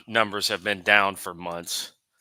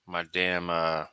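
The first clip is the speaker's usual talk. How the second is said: crunching chips; 3 semitones lower, 6 dB quieter than usual. Real, not acted. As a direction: mouth full of chips. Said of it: "sorry, I'm eating chips".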